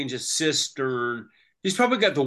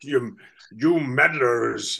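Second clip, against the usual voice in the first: Paul Lynde voice. Retold or imitated. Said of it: "you always had to say meddle".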